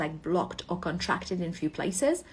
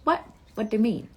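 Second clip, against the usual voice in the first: incredulous; 4 semitones higher, 5 dB louder, faster than usual. Retold or imitated. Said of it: "And I'm like".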